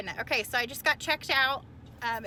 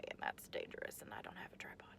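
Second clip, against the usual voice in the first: unvoiced whisper, much softer; whispered aside; 17 dB quieter, faster than usual. Real, not acted. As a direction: drop to a secret whisper for the aside. Aside about filming on freeway.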